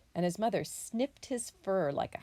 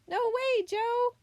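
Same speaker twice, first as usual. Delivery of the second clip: high, louder motherly refusal; scolding mother possum; 5 dB louder, slower than usual. A narrator's reading. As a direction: scold the little one in a raised pitch. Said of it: "Mother Possum scolded".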